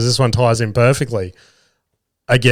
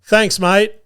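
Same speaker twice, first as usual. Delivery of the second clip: cheery thanks; 7 semitones higher than usual. Retold or imitated. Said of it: "I go".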